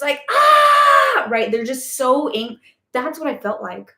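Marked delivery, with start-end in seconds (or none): 0.3-1.2 high, loud imitated child's tantrum shriek; tantrum scream. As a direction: shriek like a toddler throwing a fit. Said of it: "a child having a tantrum".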